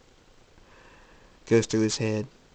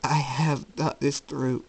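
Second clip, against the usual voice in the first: higher, slow and deliberate; resolved reply; 4 semitones higher, slower than usual. Acted. Jacob rejecting his mother's plea, slowly resolute. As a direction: draw it out with finality.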